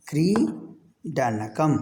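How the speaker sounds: क्रीडनकम stretched very slowly, syllable by syllable; drawn-out answer. Shown as a demonstration. Teacher to students, answering her own question with a slow, drawn-out word. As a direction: draw out क्रीडनकम so the class can copy it. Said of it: "teacher quizzing the class".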